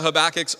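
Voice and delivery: Habakkuk's said huh-BACK-icks; Habakkuk's with BACK stressed; habitual slip. Real, not acted. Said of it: "See, I just did it".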